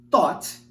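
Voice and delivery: "Taught" opened with a crisp T. Shown as a demonstration. Teacher contrasting taught with thought, crisp T. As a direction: hit the T of "Taught" cleanly. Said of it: "com o som da letra T".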